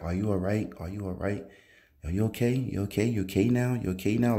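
soft reassuring voice of the woman at his bedside; calm, unhurried. Retold or imitated. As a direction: gently make sure he's okay, no rush or fear. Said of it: "not in a rush type tone or scared manner".

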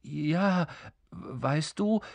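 hesitant, mildly bewildered king; halting, unsure how to begin; confused. Acted. King stalling before the impatient creature, a touch confused. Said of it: "sagte der König verwirrt".

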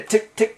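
short, separate mimicked ticks; imitated ticking. Shown as a demonstration. Programmer explaining sound for each character, imitated ticking. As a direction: mimic a teletype's tick as each letter prints. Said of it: "tick sound".

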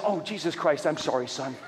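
low, falling apologetic aside; apologetic father. Retold or imitated. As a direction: lightly voice a dad apologizing for swearing. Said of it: "Just like that".

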